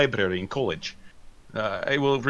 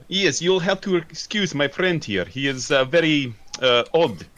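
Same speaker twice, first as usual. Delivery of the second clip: a lightly raised, odd formal voice; slightly higher stilted speech; odd put-on voice; 4 semitones higher than usual. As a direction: play the stilted alias. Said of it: "Why are you talking like that".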